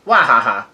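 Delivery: lightly mimicked "wahaha"; read-out villain laugh. A narrator's reading. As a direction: spell out a laugh, half-hearted. Character's scripted laugh read aloud.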